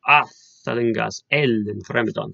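put-on "Atalingas ellen fremedon" in Old English, opening vowels leaned on; stressed initial vowels. Shown as a demonstration. Showing students how vowels alliterate, leaning on initial vowels in Old English. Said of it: "It's actually on the vowel sounds".

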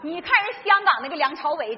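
ordinary talk, nothing marked

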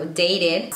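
"dated" in two syllables, day-ded; sounded E. Shown as a demonstration. Teacher giving an exception, "dated" with E sounded. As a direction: say the E and final D in "dated". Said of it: "sí se dice la E".

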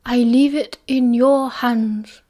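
a lightly voiced wise old wizard, unhurried; Dumbledore's voice.

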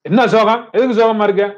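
high, exasperated questioning; irritated. Acted. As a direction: demand a reason for the gloom, pitch up. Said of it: "எரிச்சலே ஆயிட்டாரு அவனை பேசிக்கிட்டு இருக்கவர்".

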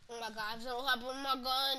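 fast, frantic; panicking gamer. Real, not acted. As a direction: rattle it off in a panic. Still out of ammo.

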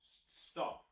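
breathy whisper; whispered stop. Real, not acted. Quiet stop after shouts.

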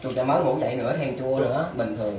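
talking while chewing fruit; speaking around a mouthful; mouth full, chewing. Real, not acted. Seen 0: Black-shirt man, likely speaker, bites and chews fruit while talking.

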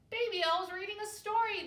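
quick, high, loud announcement; excited cry. A narrator's reading. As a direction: shout the news in a rush. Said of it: "they cried".

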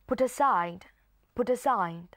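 "put aside" run together as "pu-taside"; put aside linked. Shown as a demonstration. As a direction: carry the T of "put" onto "aside". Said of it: "เรามาลองอ่านทั้งหมด". (อ่าน "put aside" เชื่อมเสียงเป็นคำเดียว)

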